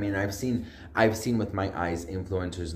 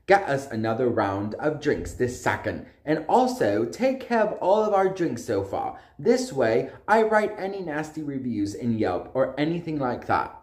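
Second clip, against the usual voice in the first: mock English accent; 2 semitones higher than usual. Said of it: "oh, I'll do his".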